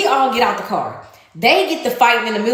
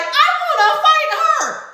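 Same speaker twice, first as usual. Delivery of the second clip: mock challenge. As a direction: play her picking the fight, half-mocking and pitched up. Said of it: "and she's like".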